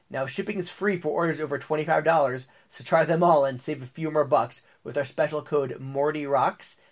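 lively ad read with list pauses; sponsor ad read. Acted. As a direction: sell the biltong to listeners. Host reads sponsor ad.

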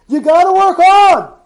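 high and loud, pressing it home; loud insistence. Real, not acted. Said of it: "repeated louder".

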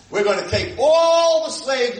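a hint of Moshe declaring; lightly voiced Moshe.

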